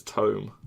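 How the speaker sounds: "tome" rhyming with dome; correct pronunciation. Shown as a demonstration. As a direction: say "tome" with a long oh. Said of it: "it's like dome".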